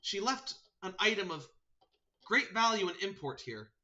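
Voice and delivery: high talking-bird voice; earnest sparrow messenger. Acted. Sparrow relaying the archdruid's message, high voice.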